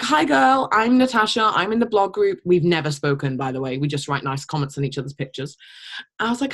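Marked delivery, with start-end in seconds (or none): 0.0-2.4 lightly higher chirpy greeting; a hint of a bubbly stranger; slightly higher friendly hello.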